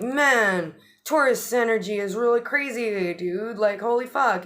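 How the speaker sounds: hammed-up stoked surfer; excited bro. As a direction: blurt it out, buzzing with news. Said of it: "And the sun's like".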